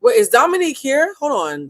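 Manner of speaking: a thrilled gasp at her arrival; "Wait, is Dominique here?" squealed in real excitement; excited. Real, not acted. Guest arrives live.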